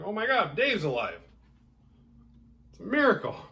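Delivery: high, loud hammed-up joy; mock amazed shout. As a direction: cheer like a miracle. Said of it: "it's like".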